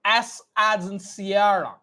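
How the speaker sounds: slow, clear phonetic-alphabet drill; teacher modelling each word; slow dictation. Shown as a demonstration. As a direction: spell it out slowly for the class. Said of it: "Always focus on my lip movement".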